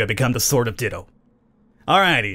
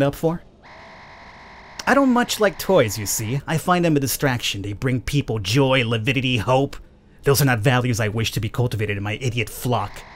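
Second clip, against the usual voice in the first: cold, theatrical villain threats; menacing villain. Acted. Reads villain Mormo's threats.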